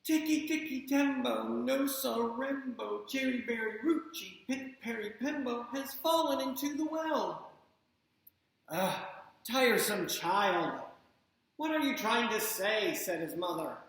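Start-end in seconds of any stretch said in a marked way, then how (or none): 0.0-7.5 urgent rush. Acted. Boy repeats name breathless. 8.7-12.9 impatient scolding. Acted. Mother scolds the boy.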